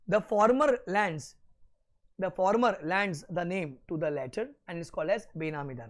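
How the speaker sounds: slow, deliberate note dictation. Acted. Teacher dictating notes slowly to students taking them down. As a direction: spell it out word by word for note-taking.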